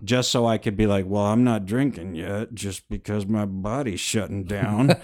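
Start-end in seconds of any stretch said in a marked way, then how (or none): 1.1-4.9 lightly voiced tipsy drunk talking. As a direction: play a mildly drunk man arguing with his body. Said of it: "the speaker's drunk voice".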